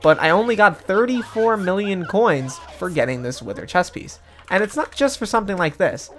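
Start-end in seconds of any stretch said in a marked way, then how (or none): none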